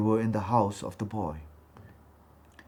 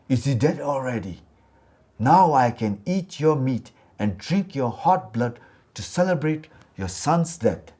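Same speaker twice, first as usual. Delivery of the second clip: a ghost gloating, hungry for blood; lightly voiced ghost, rising to a louder gleeful cry; 3 semitones higher, 6 dB louder than usual. Ghost gloating over boy's death.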